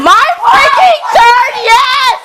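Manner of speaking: very high, loud fangirl yelling; ecstatic shouting. Real, not acted. Fan thrilled at her favorite part, ecstatic shouting. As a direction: yell it out, stretched and triumphant.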